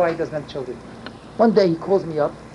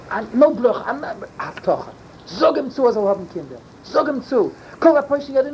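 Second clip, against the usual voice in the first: high, raised insistent demand; retold commanding yell; 5 semitones higher than usual. Demanding a blessing from Rav Moshe, commanding. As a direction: push the rabbi with a commanding yell. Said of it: "I was commanding and yelling".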